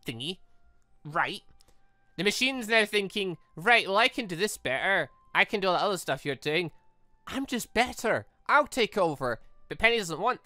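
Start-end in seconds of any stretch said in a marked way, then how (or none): none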